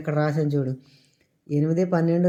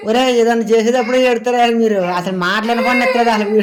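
scolding; 5 semitones higher, 6 dB louder than usual. Real, not acted. Mother scolding her squabbling children, loud and cross.

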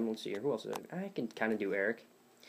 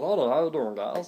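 raised-pitch silly character voice; childhood funny voice; 3 semitones higher, 4 dB louder than usual. Retold or imitated. Recalling a bored kid's voice, goofy put-on greeting. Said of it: "I just talked like this".

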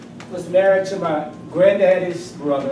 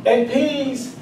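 laughing; 7 semitones higher, 4 dB louder than usual. Real, not acted. Punchline about aunt breaking wind.

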